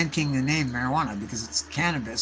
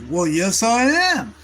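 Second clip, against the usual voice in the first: high, louder delighted reply; pleased author; 6 semitones higher, 7 dB louder, slower than usual. Retold or imitated. Author pleased by a young fan, high delighted reply. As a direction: answer beaming with delight. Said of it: "he's like".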